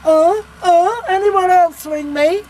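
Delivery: shouting in loud exasperation; exasperated shout. Acted. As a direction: bellow it out, fed up.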